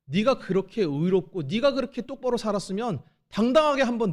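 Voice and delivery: 크게 따져 묻는 하나님 흉내; 욥을 다그치듯 크게 몰아붙여; 꾸짖는 하나님. Retold or imitated. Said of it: "전능자가 묻고 계신 거예요". (하나님이 욥을 꾸짖으며 크게 따져 묻는 흉내)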